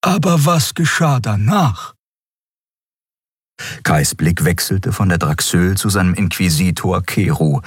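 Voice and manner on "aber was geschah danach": high-pitched questioning character voice; Xea, probing. A narrator's reading. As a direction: probe in a high, put-on voice.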